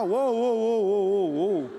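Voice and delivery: loud run of whoas dropping in pitch; backpedalling string of whoas; halting the crowd. Retold or imitated. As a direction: rein in an over-eager crowd. Leader halts the crowd's chant.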